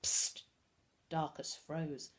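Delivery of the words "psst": sharp whispered psst; stage-whispered signal; loud whisper. A narrator's reading. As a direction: hiss for attention in secret. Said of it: "came a loud whisper".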